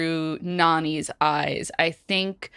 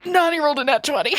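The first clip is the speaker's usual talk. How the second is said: fast, higher, louder thrilled announcement; excited; 8 semitones higher, 4 dB louder, much faster than usual. Real, not acted. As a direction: blurt it out overjoyed. Rolls a natural twenty.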